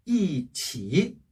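"이" falling firmly, "치" low and dipping; drawn-out falling "이" and dipping "치"; fourth tone then third. Shown as a demonstration. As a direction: drop on "이", then dip through "치". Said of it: "삼 성이 왔을 때예요".

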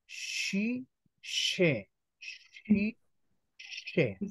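Sci and sce said with a clear soft sh; sci, sce, sci, sce each with a hushing sh; Italian: sci e sce con il suono sc dolce; sh sound demo. Shown as a demonstration. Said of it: "Con la I e con la E".

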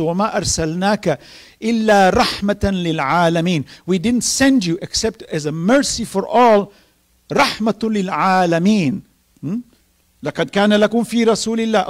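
fast, flowing chanted recitation of scripture; Arabic recitation intoned quickly; Quranic recitation. Acted. Quran verses recited mid-sermon.

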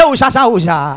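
stuck on "Sha", last one dropping low; hammed-up stammer with hooting blocks. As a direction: stammerer straining to get "shut" out. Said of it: "Now the idiot reply am back".

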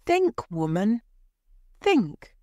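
high, insistent plea; urgent pleading. A narrator's reading. Husband trying to stop his wife, urgently pleading. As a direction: plead harder on the final word. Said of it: "Mister White said again".

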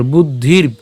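"বুদ্ধির" closed on r and b together; pronunciation demo. Shown as a demonstration. Teacher explaining the joined letters, "বুদ্ধির" stopped on rb. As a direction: end "বুদ্ধির" on a joined rb, no vowel after. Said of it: "রেফ এবং ব উচ্চারণ করছি একসাথে".

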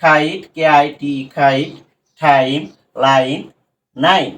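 "খাইট, টাইম, লাইন, নাইন" slowly, each with "ai"; long I sound. Shown as a demonstration. Teacher modelling long I words, slow and separated. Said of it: "আইটা ভাওয়েলের long sound যখন উচ্চারণ করে".

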